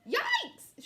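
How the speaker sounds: loud, high yelp; sudden pained yelp; shrieking. A narrator's reading. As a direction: shriek it as a startled fox. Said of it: "shrieked the fox".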